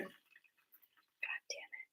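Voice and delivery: slow, faint whisper; whispered curse. Real, not acted. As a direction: curse under your breath. Quiet curse in the room.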